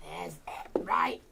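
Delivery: whispered under his breath. Real, not acted. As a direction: breathe the words out, no voice. Whispers while working.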